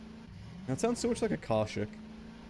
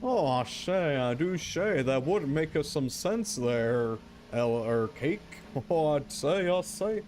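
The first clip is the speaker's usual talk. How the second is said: a light hint of a blustering rooster, pitched up; Foghorn Leghorn voice; 2 semitones higher, slower than usual. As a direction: lightly ham up the Southern rooster catchphrase. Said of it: "Foghorn Leghorn might be".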